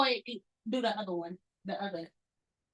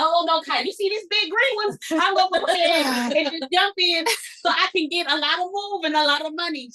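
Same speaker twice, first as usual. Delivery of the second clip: excited impulsive self; 5 semitones higher, 3 dB louder than usual. Retold or imitated. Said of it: "And I'm like".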